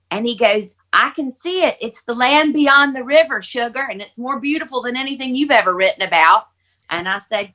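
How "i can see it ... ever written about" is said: imitating Dad's high, awed delight; joyful wonder. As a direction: marvel in a raised voice, as the father. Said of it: "all of a sudden he starts laughing".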